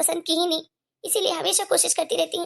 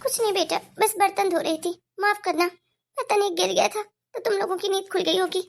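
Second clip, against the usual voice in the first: put-on higher, timid old mother's voice; apologetic elderly mother, higher pitch; meek old mother; 4 semitones higher than usual. Mother apologising to son in kitchen, meek and higher.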